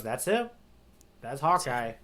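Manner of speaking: hushed dramatic reveal. Retold or imitated. Zeph spots Hawkeye coming, an ominous hushed whisper. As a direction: breathe it out like a dread secret. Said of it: "And Zeph goes".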